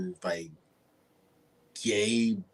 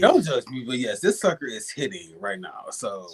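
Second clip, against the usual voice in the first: tipsy, giggly aside. Real, not acted. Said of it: "I'm a little tipsy".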